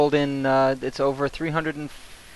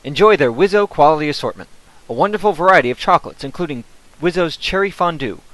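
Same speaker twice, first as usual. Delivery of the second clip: put-on bright old-time radio ad read; chipper 1950s ad. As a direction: sell it like a cheery vintage announcer. Parody sponsor read.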